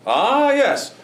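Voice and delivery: usual speaking voice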